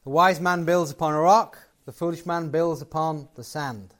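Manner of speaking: ordinary delivery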